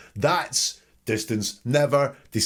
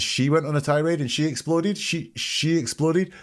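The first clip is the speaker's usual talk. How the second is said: incredulous; 5 semitones higher than usual. Shown as a demonstration. Analyst mocks the claim.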